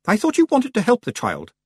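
high-pitched reproach; high, protesting witch voice; challenging Miss Tick. Acted. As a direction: press her, pitched well up.

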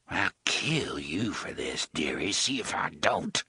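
whispered threat. A narrator's reading.

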